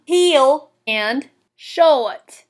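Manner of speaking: "heel" and "short" drawn into two syllables; slow Southern lilt, no R in "short". Shown as a demonstration. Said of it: "one-syllable words two syllables".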